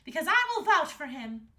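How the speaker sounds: put-on high, loud determined girl; Princess Astrid. A narrator's reading. Princess vouching for the dragon to the king, determined. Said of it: "said Princess Astrid".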